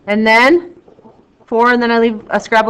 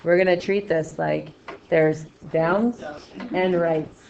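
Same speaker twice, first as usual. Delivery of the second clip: dull, one-note teacher voice, a bit low; monotone; 4 semitones lower, 4 dB quieter, slower than usual. Pretend. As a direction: drone it out with no lift. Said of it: "she's doing monotone".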